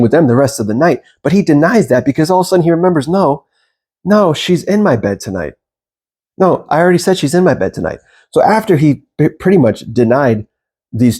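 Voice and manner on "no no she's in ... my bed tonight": firm refusal. Retold or imitated. He refuses the other women's company.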